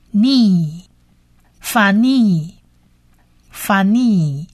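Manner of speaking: "逆" and "funny" with a long, drawn-out ee; long E vowel. Shown as a demonstration. Teacher adds the long vowel for learners, slow pronunciation demo. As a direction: slowly stretch the last vowel of "funny" as fa-neee. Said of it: "是长母音E的音".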